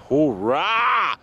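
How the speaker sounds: a loud "Hoorah!" with a falling end; loud cheer. Real, not acted. Walker cheering to viewers, loud. Celebrating nearly home.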